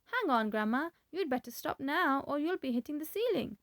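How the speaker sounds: put-on high, loud, startled boy's shout; shouted alarm. A narrator's reading. George shouting at his growing grandma. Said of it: "George gave a jump and shouted".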